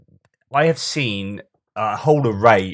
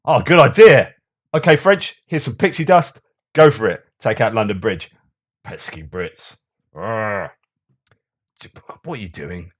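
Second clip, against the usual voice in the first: mock God; 6 dB louder than usual. Mocking God answering the prayer against Britain, hammed-up and cheery. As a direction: play God as a cheery fairy handing out favours. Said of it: "God, ... is sitting up there going".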